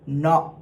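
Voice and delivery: "no" spoken short, without the tall "aw"; short spoken "no", the vowel to avoid; wrong vowel demo. Shown as a demonstration. Choir coach showing what to avoid, wrong vowel demo. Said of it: "So it's not gonna be".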